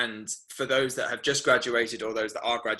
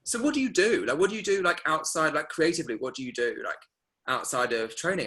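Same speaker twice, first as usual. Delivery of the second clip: higher, probing agent voice; imitating the agent; 5 semitones higher than usual. Agent quizzing a graduate at the showcase, higher and probing. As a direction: play the curious agent quizzing her. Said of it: "an agent came up to me and was like".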